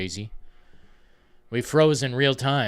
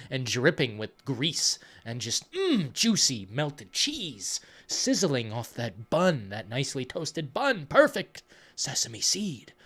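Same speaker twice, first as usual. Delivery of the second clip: savouring burger; slower than usual. Pretend.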